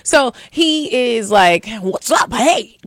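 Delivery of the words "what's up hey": mocking a corny date's hello; hammed-up dorky greeting. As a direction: say hello like a total cornball. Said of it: "super corny".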